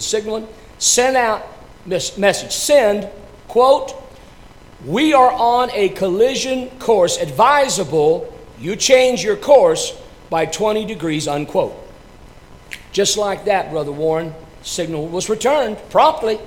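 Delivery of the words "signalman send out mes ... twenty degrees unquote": captain's order. Acted. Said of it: "He said".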